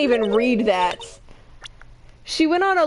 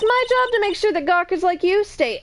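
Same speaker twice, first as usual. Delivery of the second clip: high, swooping New York guard voice; weird New York accent; 4 semitones higher than usual. Acted. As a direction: lay down the law in put-on New York. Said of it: "giving her a weird New York accent".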